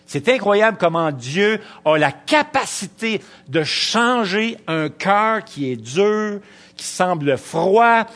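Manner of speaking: slow, loud preacher's build to the congregation; fervent preaching. Acted. Preacher exhorting students, slow and loud. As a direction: proclaim it from the pulpit.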